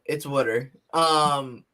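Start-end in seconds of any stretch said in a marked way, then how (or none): 0.2-0.7 "water" said local-style as "wooder"; Delco pronunciation. Shown as a demonstration. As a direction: say "water" with a short oo, WOOD-er. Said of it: "I'm in Delco".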